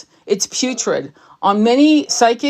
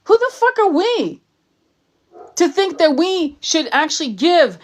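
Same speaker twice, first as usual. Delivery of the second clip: much higher, strained outraged cry; outraged rant; 6 semitones higher than usual. Real, not acted. Psychic scolding arrogant healers, outraged and much higher. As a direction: erupt in disbelief at their arrogance.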